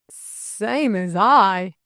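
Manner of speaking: slow, loud, taken-aback echo; stammered. A narrator's reading. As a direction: repeat it stretched, in disbelief. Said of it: "stammered Delcote".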